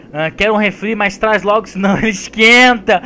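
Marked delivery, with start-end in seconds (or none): 1.7-3.0 bursting into laughter; laughing. Real, not acted. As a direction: crack up mid-line, much higher. Passageiro brincando, risada. (rindo muito)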